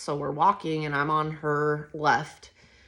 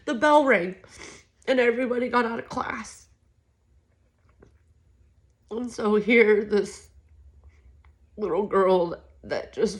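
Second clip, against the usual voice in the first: tearful; 4 semitones higher than usual. Real, not acted. Still tearful after the news.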